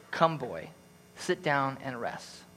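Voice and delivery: soft, slow and gentle; tender offer. Acted. Old stump offering tired boy a seat, tender and soft. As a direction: invite him to rest, quietly.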